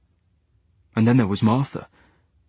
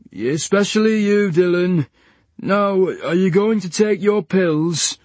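higher, slow, firm; firm nurse; 6 semitones higher, slower than usual. A narrator's reading. Nurse to Dylan, firm and slow. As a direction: press him to take the pills. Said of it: "nurse pressing Leach".

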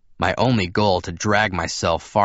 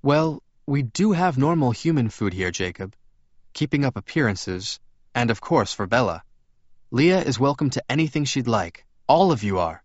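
lightly voiced, courteous vampire; slightly higher, careful dialogue; Edward's character voice; 5 semitones higher than usual. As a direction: lift the pitch a little, explain politely.

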